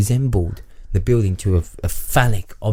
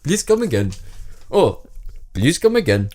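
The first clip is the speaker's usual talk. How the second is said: higher, copied mock Indian accent; 4 semitones higher than usual. Reader copies co-host's catchphrase, mock Indian accent. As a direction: echo a comic Indian accent. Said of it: "bring some Punjab back into that".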